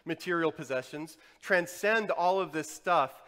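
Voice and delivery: loud, insistent preacher's delivery; forceful preaching. Acted. Preacher urging listeners to transcend possessions, forceful preaching. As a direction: drive each phrase home loudly.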